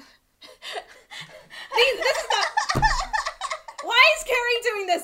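talking through laughter; cracking up while protesting; laughing. Real, not acted.

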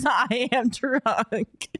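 put-on slowed, playful drunk drawl. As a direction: say it like a tipsy wine glass. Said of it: "the wine in my hand also says".

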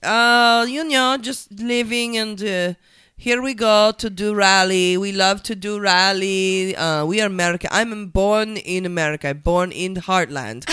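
loud, slow hammed-up Russian accent; mock foreign accent. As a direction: play a fake American. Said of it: "I only do an accent".

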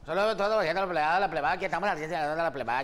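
fast, swaggering Sinaloa buchón greeting; Sinaloa buchón accent. Pretend. Answering a fan's request, a fast Sinaloa buchón accent. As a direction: rattle it off like a Sinaloa buchón sending regards. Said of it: "salúdame como buchón".

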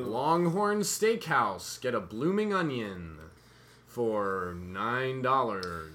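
slow, loud commercial announcer. Pretend. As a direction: sell it like a hammy TV ad. Mock steakhouse ad read.

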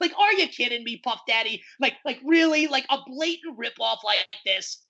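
how can this be real; incredulous. Real, not acted. Incredulous rant.

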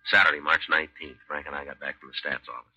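steady, matter-of-fact police narration; calm, even recap of the case; story narration. A narrator's reading.

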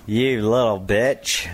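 John Wayne impression. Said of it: "that's a lot better than the one you did last week".

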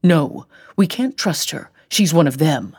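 put-on a touch of paranoid old man. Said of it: "Frank raised his voice".

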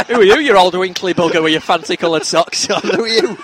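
put-on loud jokey jeering at an old man; mock heckle. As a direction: heckle him, laughing. Retelling brash banter with host.

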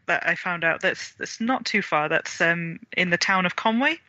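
ordinary talk

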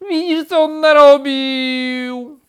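very high, slow, loud complaint; shrieked, drawn-out grievance; outraged wail. A narrator's reading. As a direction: wail the accusation at full voice. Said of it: "wrzasnął znowu".

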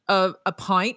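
lightly mimicked Irish pronunciation; imitated Irish accent. Host teases Irish guest about a drink, imitating Irish accent. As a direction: borrow the guest's Irish vowel in "pint". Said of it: "as you would say".

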